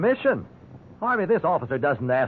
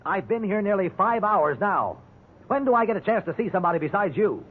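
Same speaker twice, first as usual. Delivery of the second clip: exasperated pleading; 6 semitones higher than usual. Acted. Prisoner demands a fair trial.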